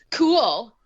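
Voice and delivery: bored deadpan cool; flat cool. Retold or imitated. Podcaster mimicking the movie heroine, dry deadpan. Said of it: "she kept going".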